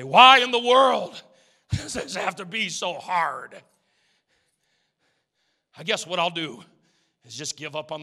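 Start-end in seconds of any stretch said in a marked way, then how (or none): 0.0-3.6 laughing complaint. Retold or imitated. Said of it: "And you say".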